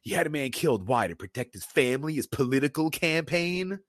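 a hint of a furious butler scolding; mock angry retort, pitch climbing; angry Alfred. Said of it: "Alfred gets pissed".

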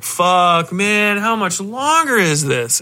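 drawn-out complaint, rising in the middle; exasperated moviegoer. Acted. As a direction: groan it slowly like a fed-up viewer. Acted bored moviegoer's complaint.

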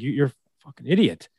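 a touch of heated frustration, pitch rising at the end; mock-rant at a coach, half in earnest; fired up. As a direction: player venting at a bad call, mildly heated. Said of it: "I get emotional about it or fired up".

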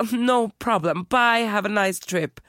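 slow, breezy high brush-off; mock casual. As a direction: drag it out like nothing happened. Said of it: "Och jag bara".

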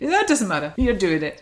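lightly attempted accent, sounding Scottish; Louis Walsh. Louis overrules the guest's doubts, attempted accent. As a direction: brush it off in a loose accent. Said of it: "I can't do the accent".

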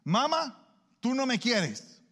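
high, slow, pleading mamá, stress on "no"; whiny son. Acted. Son whining to his mother that she doesn't love him. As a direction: whine "tú no me quieres" with "no" drawn out and high.

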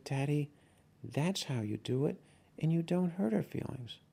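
a hint of a small daughter telling Daddy off; scolding little girl. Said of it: "she came over and said".

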